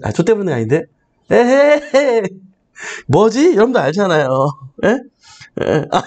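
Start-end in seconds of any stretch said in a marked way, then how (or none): 1.3-3.5 fumbling mother impression. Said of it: "이거 뭐라 그러지?".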